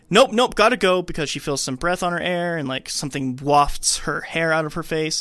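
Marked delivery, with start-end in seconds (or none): 0.1-1.0 louder, higher hurried nope; hammed-up scared bail-out; mock panicked exit. Annie bolting from the seance, mock panic. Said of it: "Annie's like".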